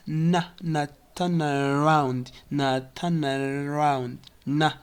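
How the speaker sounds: "now" shortened to "na"; reduced "now". Shown as a demonstration. Teacher showing how now reduces, short "na". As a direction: shrink "now" to "na" before "turn around". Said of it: "Now often reduces to na".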